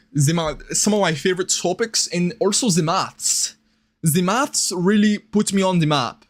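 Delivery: lightly put-on German accent; loose, shaky-authentic mock German accent; attempted German accent. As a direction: try a rough German accent. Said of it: "It was supposed to be the German accent".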